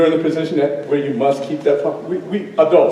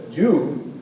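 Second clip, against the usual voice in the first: lion correcting the cub; 5 dB quieter than usual. Acted. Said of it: "The lion looks at the cub and says".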